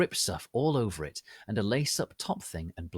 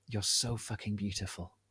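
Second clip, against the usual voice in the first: sexy voice; 6 dB quieter than usual. Acted. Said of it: "Draco said in a sexy voice".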